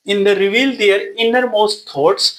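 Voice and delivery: reads each English word out slowly for notes; slow dictation. Shown as a demonstration. Teacher dictating notes to students, slow and deliberate. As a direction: spell out the definition word by word. Dictating next part of note.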